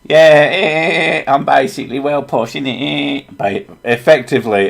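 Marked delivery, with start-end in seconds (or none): 0.0-3.2 higher, hammed-up Yorkshire that slips into Essex; botched Yorkshire accent. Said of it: "an Essex version of Yorkshire".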